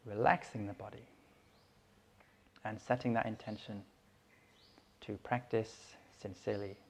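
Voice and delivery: calm, unhurried meditation guidance with long pauses; guided meditation. Real, not acted. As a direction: settle them gently into stillness, phrase by phrase.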